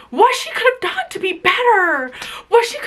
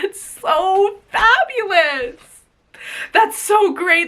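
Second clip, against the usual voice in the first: sarcastic; 4 semitones higher, slower than usual. Real, not acted. Bitter sarcasm about losing family.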